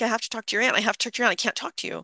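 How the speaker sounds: a lightly voiced distraught mom insisting; frantic mother. Mother on phone asking for the aunt, mildly frantic. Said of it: "brief, frantic exchange".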